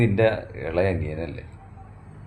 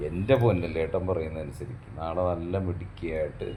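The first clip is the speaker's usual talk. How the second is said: lower, softer, cajoling; gentle coaxing; 3 semitones lower, 5 dB quieter than usual. Acted. Husband cajoling his wife to attend the function, gentle. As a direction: sweet-talk her into going.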